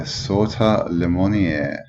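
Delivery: careful French pronunciation of the name; slow, deliberate French-accented name. Shown as a demonstration. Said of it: "I'm working on my accents".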